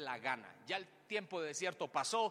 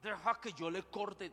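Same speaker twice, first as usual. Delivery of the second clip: angry warrior shout; 12 semitones higher, 9 dB louder than usual. Acted. Abisai shouting to David, eager to strike. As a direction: demand permission to kill. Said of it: "Y le digo".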